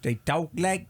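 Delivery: badly faked Chinese accent in English; attempted Chinese-accented English. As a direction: try a Chinese speaker's English, clumsily. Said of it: "when they try to speak English".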